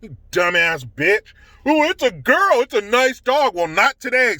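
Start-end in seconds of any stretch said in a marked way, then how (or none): 1.7-3.5 high, lightly voiced sing-song mimic of the lady; scornful high mimicry of the dog owner; mocking the lady. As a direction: parrot her in a silly higher voice. Mocking the lady's words.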